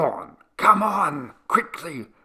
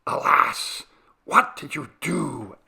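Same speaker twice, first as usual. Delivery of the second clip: dismayed reproach; 6 semitones higher, 3 dB louder than usual. A narrator's reading. Dismay at rolling barrel.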